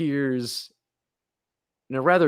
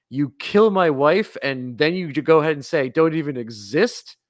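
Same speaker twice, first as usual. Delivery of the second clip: angry retort; 3 semitones higher, 5 dB louder than usual. Retold or imitated. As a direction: fire it back, outraged. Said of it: "Dracula fires back with".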